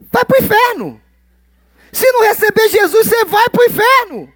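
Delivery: hammed-up fire-and-brimstone pastor; mock stern pastor. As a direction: bluntly condemn the visitor. Mock blunt pastor reply.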